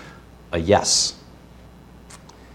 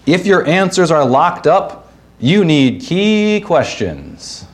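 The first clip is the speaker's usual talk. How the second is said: higher-pitched game-show pun, ending drawn out; cheesy announcer voice; 7 semitones higher, slower than usual. Acted. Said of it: "speak in a cheesy announcer voice".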